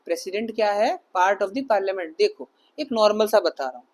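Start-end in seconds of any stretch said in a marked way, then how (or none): 1.2-2.2 very slow, word by word; slow dictation. Shown as a demonstration. Teacher dictating the exam question and answer slowly. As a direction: spell it out slowly for notes. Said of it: "dictating the answer".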